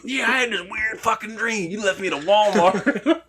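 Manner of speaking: accusing gruff voice. Retold or imitated. Voicing Stone Cold accusing.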